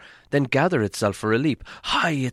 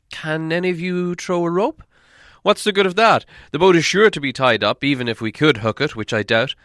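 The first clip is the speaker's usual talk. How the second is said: loud, high, scornful dwarf voice; arguing dwarves; 7 semitones higher, 6 dB louder than usual. Acted. Dwarves arguing over the rope, loud scornful retort. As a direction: scoff at the idea, raising the voice.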